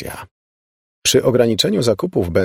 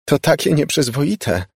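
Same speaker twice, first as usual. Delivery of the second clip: high squeal of shocked glee; shrill giggly squeal; 8 semitones higher than usual. A narrator's reading. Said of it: "piszczała".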